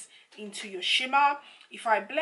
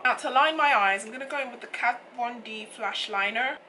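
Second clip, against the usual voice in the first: croaky, hoarse morning voice; rough frog in the throat; 4 dB louder than usual. Real, not acted. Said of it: "I sound like a frog today".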